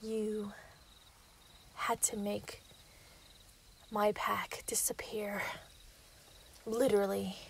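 gloating werewolf lover explaining herself; menacing villain confession. Acted. Villain confessing to the hunter, hushed and menacing.

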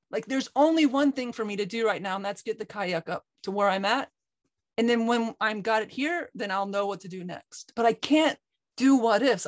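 mildly heated, the upset son quoting himself; venting frustration, understated; retold anger. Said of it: "and I got so angry".

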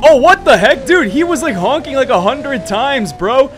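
high, heated protest; indignant outcry. Pretend. Outraged at rival honking in race.

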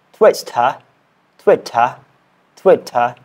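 British-style "Twitter", r dropped; British accent attempt. Shown as a demonstration. Learner repeating a challenge word, British accent attempt. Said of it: "I am learning British accent".

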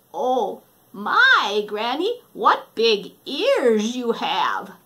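put-on slow, amazed girl; drawn-out child's wonder; wondering little girl. Red noticing granny's big ears, slow and wondering.

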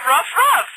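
high rising ruff ruff, half-hearted; a reluctant little bark; mock dog bark. Prank caller insists, reluctant mock dog bark. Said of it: "go ahead and bark like a dog for me".

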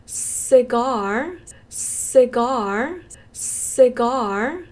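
loud slow model of CIGAR, late r; long AR drill. Shown as a demonstration. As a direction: punch and stretch the end of CIGAR, rising. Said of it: "시가르도 핑크 발음".

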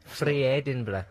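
drawn-out Scottish "free Edinburgh"; Scottish accent. Shown as a demonstration. Showing co-host how to say it, in Scottish accent. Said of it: "That's what you have to say".

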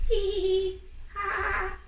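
high teasing cackle of the birds; mocking laughter. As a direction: laugh at him like spiteful birds. Birds mock duck's egg.

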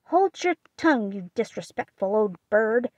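put-on scolding old aunt. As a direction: scold the bird. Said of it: "Aunt March scolds parrot".

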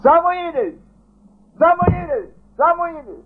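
very high, loud calls of the name; God calling thrice. Retold or imitated. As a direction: ring out the name three times from above. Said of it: "Numai să strigă Dumnezeu de trei ori".

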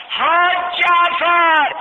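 long, high, loud call across the fire; slow drawn-out shout of a name. Retold or imitated. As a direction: call out the name to someone far away. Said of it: "من داد زدم".

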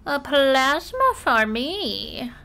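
slow, creepy, drawn-out plasma craving. Pretend. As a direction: croon it like a creepy collector. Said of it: "Is it creepy?".

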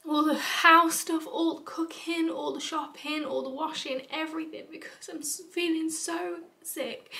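choked-up, breaking voice; tearful listing; emotional. Real, not acted. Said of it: "Still very emotional, as you can tell".

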